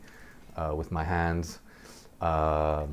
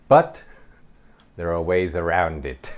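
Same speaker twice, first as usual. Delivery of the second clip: lecturing; 6 dB louder than usual. Retold or imitated. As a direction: hit the first word hard, then settle. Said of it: "like she's giving a lecture".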